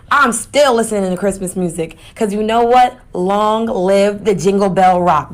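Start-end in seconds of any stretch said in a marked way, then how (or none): 3.1-5.3 festive cheer. Real, not acted. Festive cheer about Christmas music.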